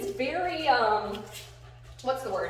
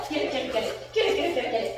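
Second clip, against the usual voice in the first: excited urging; 2 semitones higher, faster than usual. Real, not acted. Urging dog on in tug game.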